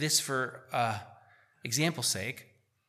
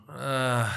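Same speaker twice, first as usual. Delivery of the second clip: demo groan. Shown as a demonstration. Pastor showing the church what a groan sounds like, a short groan. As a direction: let out one groan to show the people. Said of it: "that's a groan".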